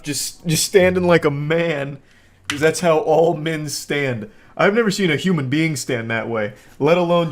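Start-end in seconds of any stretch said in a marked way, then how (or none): 0.0-4.3 slow, mock-serious dude voice; mock macho. Narrator mocking the woman's man pose, slow and mock-proud. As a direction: drawl it out like a proud tough guy.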